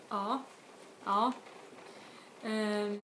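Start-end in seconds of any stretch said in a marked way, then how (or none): 0.1-1.3 "ja" said without its J, just a long open "ah"; dropped J. Shown as a demonstration. Teacher showing spoken Swedish yes, J dropped. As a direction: leave the J off "ja". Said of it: "you don't say the J".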